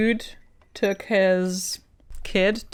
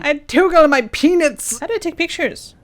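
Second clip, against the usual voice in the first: silly voice; 7 semitones higher, 8 dB louder than usual. Pretend. Silly joke voice.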